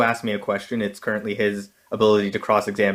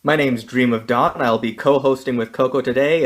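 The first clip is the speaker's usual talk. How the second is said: wrestler announcer; 2 semitones higher than usual. Acted. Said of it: "I wanna do it in a wrestler voice".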